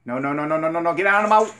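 pleading with the game as it fails; frustrated no's. Real, not acted. Gamer begging the hunt not to fail, rising frustrated no.

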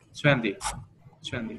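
"Trend gì" with TREND stressed and a very light "gì"; very light last syllable. Shown as a demonstration. Teacher modelling for a student, light falling ending on "Trend gì". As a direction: lean on "Trend", barely touch "gì". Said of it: "từ ti đọc đi đọc rất là nhẹ".

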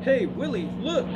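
high, loud excited call; shouting. A narrator's reading. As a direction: call up eagerly from below. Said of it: "someone shouted from below".

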